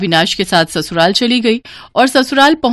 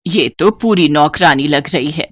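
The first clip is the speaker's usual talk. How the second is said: lightly jeering, pitched down; mocking mother-in-law; 4 semitones lower than usual. Mother-in-law ridicules the working bride, mocking. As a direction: make fun of the bride in a lower voice. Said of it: "उसकी सास और उसका पति".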